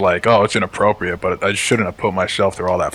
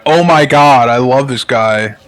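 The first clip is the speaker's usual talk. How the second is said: gushing fan; 3 semitones higher, 6 dB louder, slower than usual. Retold or imitated.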